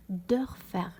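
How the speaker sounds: دورفر with the o fronted by umlaut. Shown as a demonstration. Teacher shows the word after adding umlaut, دورفر with ö. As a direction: say دورفر with rounded front ö, as Dörfer. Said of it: "كيفاش راهو يتقرا".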